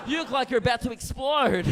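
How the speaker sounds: loud put-on Kiwi accent; New Zealand accent. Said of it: "Excuse the accent".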